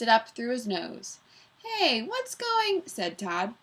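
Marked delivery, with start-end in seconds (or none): 1.6-2.8 cut-off greeting. Acted. Todd's voice cut off.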